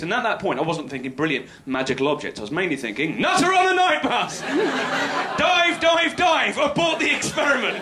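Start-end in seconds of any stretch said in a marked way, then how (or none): 3.2-7.8 high, loud panicked yelp; mock panic. Panicking inwardly beside the nutter on the bus, high and loud. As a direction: cry abort like a spooked soldier.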